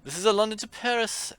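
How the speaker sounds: high, loud and slowed, spelling it out; talking down to a child. Acted. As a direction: explain like to a dim child. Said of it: "to a particularly dim-witted child".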